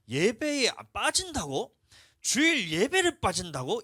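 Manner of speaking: indignant disbelief. Retold or imitated. Indignant inner voice at skipping.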